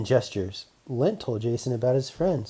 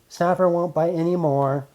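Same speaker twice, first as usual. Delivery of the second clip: robot man voice; 6 semitones higher, 5 dB louder than usual. Acted.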